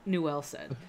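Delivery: put-on slurring like a tipsy old man; drunk man voice. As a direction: read it like a little drunk man. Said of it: "you gotta sound like a little drunk man when you do this".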